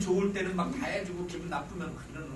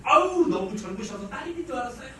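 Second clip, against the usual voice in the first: flattering salesman; 5 semitones higher, 5 dB louder than usual. Retold or imitated. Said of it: "이분이 뭐라고 하시냐면".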